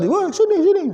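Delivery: high mock shout for the ball; mock player call. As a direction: call out "sini" like a player demanding a pass. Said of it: "Tadi kayak sepak bola". (seruan pemain bola minta umpan, ditiru)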